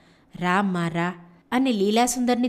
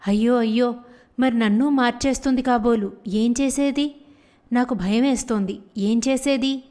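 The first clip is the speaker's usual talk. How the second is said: worried. Acted. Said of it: "దిగులు పడింది".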